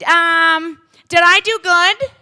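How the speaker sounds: put-on high, loud whiny kid calling coach again and again. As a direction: call for the coach like a whining little boy. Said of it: "he sounds like Caillou".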